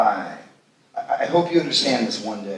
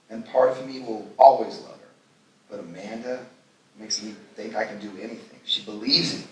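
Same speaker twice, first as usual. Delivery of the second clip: hushed and tender; 2 semitones lower, 5 dB quieter than usual. Acted. Confiding about new love.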